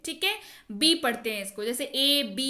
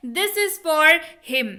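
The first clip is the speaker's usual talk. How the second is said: slow and louder, stressed repeat; 5 dB louder, much slower than usual. Shown as a demonstration. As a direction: say it again firmly so all hear. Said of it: "यह उसके लिए है". (ज़ोर देकर धीमे दोहराना)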